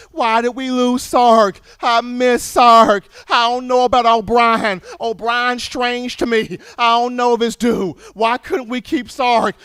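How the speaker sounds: fans whining for Sark, in a mock lament; mock crying fans. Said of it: "You still have fans kinda crying, going".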